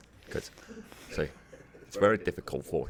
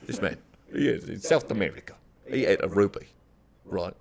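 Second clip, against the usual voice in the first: Michael Caine impression. Shown as a demonstration. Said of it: "get back into the Michael Caine".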